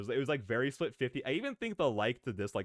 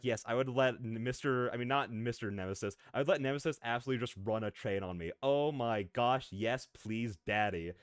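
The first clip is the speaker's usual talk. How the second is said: retold freakout. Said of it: "of me just freaking out".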